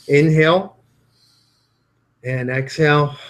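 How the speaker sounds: calm, measured instructions with long pauses; guided breathing. Shown as a demonstration. Leads a breathing exercise.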